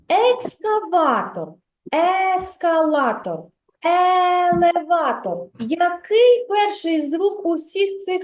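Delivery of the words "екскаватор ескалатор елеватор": екскаватор, ескалатор, елеватор said slowly, each apart; slow word list. Shown as a demonstration. Teacher repeats the words to show the first sound. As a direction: stress the opening Е of each word. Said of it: "Дітки".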